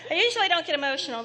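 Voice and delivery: fast, laughing through tears; emotional laugh. Real, not acted. Medium laughing fast as the reading moves her. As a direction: laugh it off while welling up. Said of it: "This one's very emotional for me".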